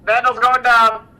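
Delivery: loud, high alarmed callout; urgent shout. Real, not acted. Aircraft going down.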